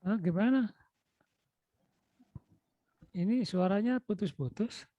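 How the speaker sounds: ordinary delivery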